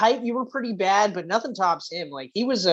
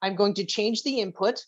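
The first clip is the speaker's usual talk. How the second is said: lightly voiced mock calm; a hint of forced calm, evenly. Friend imitates him staying calm after losing, mock calm. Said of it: "You very calmly went".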